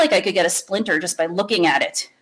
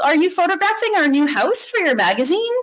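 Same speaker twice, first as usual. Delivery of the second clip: dad voice; 8 semitones higher than usual. Acted. Dad teasing his daughter.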